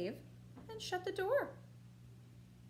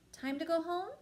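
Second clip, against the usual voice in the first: higher, loud friendly dragon; lightly voiced kind dragon; 7 semitones higher, 5 dB louder than usual. Dragon asks kindly.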